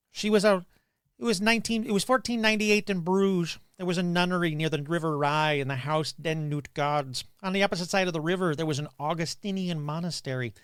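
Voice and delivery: lightly voiced Doctor Evil retelling; a faint villain monologue from Austin Powers. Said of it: "You know what I'm doing, right? From Austin Powers".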